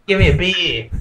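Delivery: lightly put-on Ocker Australian; Ocker Australian accent. Ordering a beer as a joke, mock Ocker Australian accent. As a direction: play up the Ocker Australian a little. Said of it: "talk like an Ocker Australian".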